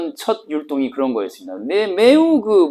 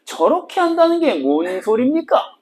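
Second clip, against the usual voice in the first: a higher, puzzled student asking; 8 semitones higher than usual. Pretend. Teacher voicing a student who asks what it means. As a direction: play the confused pupil raising a question. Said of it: "택민이가 얘기할 거야".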